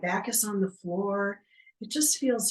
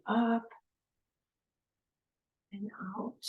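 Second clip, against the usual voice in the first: guided mindful movement; 3 dB quieter than usual. Real, not acted. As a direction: talk them gently through each breath and stretch, with long pauses. Leads slow mindful breathing movement.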